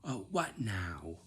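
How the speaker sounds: slow whisper under the breath; whispered to self. Retold or imitated. Girl to herself as dad comes downstairs, whispered. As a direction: mutter it to yourself as dad comes. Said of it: "I say this to myself".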